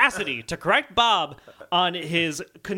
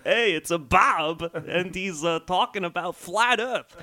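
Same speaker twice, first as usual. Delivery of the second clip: lightly done, slow deliberate drawl; a hint of Christopher Walken; Christopher Walken impression; slower than usual. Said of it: "if Christopher Walken was talking".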